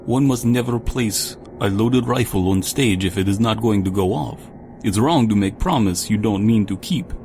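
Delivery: put-on broken English in a Russian accent; lightly put-on Russian accent. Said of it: "in broken English with a Russian accent".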